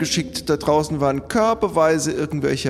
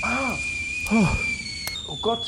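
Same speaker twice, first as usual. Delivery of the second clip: disgusted gasp; 7 semitones higher, 7 dB quieter than usual. Acted. Disgusted by something found.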